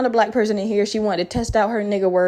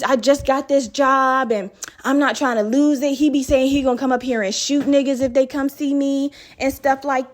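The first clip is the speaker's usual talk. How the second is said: put-on higher, gossipy girl voice rattling on; mock chatty woman; 3 semitones higher than usual. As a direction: imitate an oversharing nurse spilling her life story. Imitating chatty nurse's monologue.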